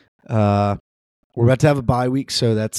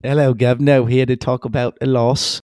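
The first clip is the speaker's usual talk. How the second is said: a bad British accent, Governor stretched; hammed-up London-style greeting, half-laughing; mock London accent; 2 semitones higher than usual. Host retries his London accent for the intro. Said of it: "that's my best".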